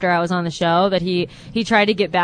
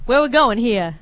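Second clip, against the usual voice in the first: mock southern-accented question. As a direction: imitate the other reader's southern accent. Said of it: "like, a southern accent?".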